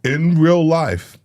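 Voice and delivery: high, slow elf voice; christmas elf. Retold or imitated. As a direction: stretch it out like an elf. Elf voice on a repeated phrase.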